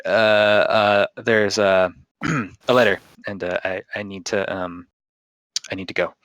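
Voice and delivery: hesitant, stammering messenger; hyper awkward. Acted. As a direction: fumble it out, unsure and halting. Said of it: "he's just being hyper awkward".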